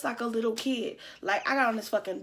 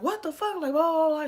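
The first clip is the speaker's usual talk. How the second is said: retold outrage; 5 semitones higher than usual. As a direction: imitate a mom going off, pitched up. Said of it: "She was going off".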